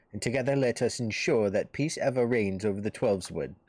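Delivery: lightly voiced courteous envoy; a hint of a solemn, flattering officer; formal recruiting officer. Twin Adder officer courts the hero to enlist, lightly voiced formal envoy.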